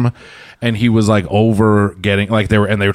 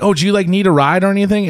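high quoted voice; 9 semitones higher, faster than usual. Retold or imitated. Retold offer to old lady.

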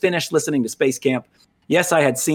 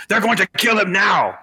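higher-pitched mock alarm cry; mock urgency; 5 semitones higher than usual. Gamer mimics an over-urgent plot warning, mock urgency. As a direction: exaggerate the alarm as a quoted threat.

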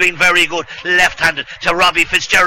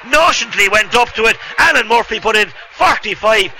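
excited commentary; 5 semitones higher than usual. Real, not acted. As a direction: still buzzing after the goal. Aftermath of goal.

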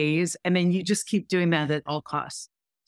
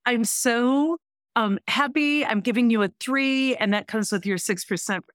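lightly imitating a pleased boss, higher pitch; a touch of upbeat delight, pitched up; excited boss; 4 semitones higher than usual. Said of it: "She's all excited".

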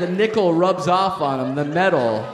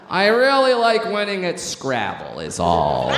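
Robert Durst impression; 3 semitones higher than usual. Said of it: "It's a Robert Durst impression".

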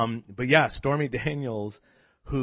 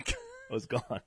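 higher, whispery mock mystery man; a playful, theatrical getaway line; mock dramatic exit; 4 dB quieter, slower than usual. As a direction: vanish like Keyser Soze, teasing. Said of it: "That's your move?".

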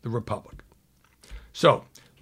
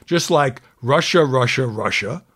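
louder, hammering Russia Russia Russia; all caps; 4 dB louder than usual. Retold or imitated. Anchor voicing Trump's capitalized words, louder and hammering. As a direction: belt out the capitals. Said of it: "all caps".

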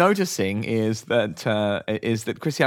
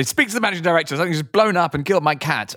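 irate customer; 3 semitones higher, faster than usual. Retold or imitated. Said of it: "You would actually ask for the managing director".

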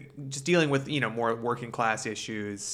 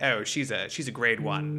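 mock British. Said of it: "classy British version of the bro code".

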